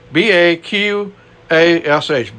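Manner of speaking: slow letter-by-letter spelling. Shown as a demonstration. Preacher spells a Hebrew word for listeners, slowly.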